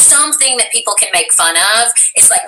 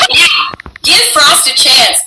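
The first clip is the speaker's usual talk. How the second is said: laughing cheer; 6 semitones higher, 7 dB louder, slower than usual. Real, not acted.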